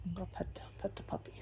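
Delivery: hushed whisper so pets sleep on. Real, not acted. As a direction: whisper quickly aside.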